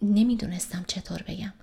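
a breathy whispered aside, hesitant; embarrassed whisper to herself. Acted. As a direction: drop to a whisper, at a loss for words. Hesitant aside mid-sentence.

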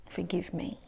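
soft whispered "forgive me"; whispered plea. Retold or imitated. To her husband Bruce, a soft whispered apology. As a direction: breathe it as a humble apology.

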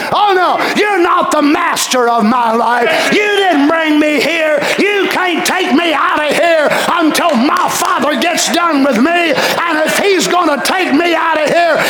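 forceful preaching rebuke; rebuking Satan. Acted. Preacher defying Satan before the congregation, forceful rebuke. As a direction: tell the devil off with force.

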